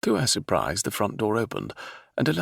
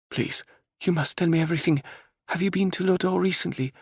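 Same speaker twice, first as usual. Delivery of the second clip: raised, eager pleading princess; 12 semitones higher than usual. Acted. Princess begs the captain for news, pleading. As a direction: beg him for news of home. Princess Isabella voiced in story.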